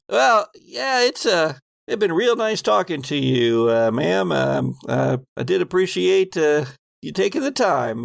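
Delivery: lightly voiced folksy working man; a hint of a shy, polite worker; folksy guard. GM as Walter politely ending the chat, lightly voiced. GM voicing Walter to old lady.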